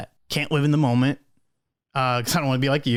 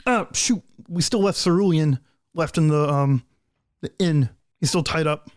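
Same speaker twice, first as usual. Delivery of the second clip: Blue, dismayed; 2 semitones higher than usual. Acted. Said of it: "And he goes".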